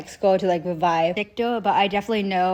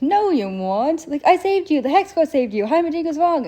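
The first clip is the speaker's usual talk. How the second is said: much higher, louder pleading; desperate Jace; 8 semitones higher, 4 dB louder than usual. Retold or imitated. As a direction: insist in a high, urgent voice, refusing it. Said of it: "And Jason's like".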